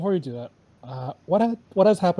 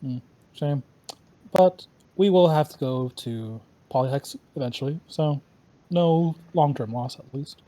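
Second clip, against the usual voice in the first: robot voice. Acted. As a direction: speak like a solemn robot. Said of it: "You're talking like a robot".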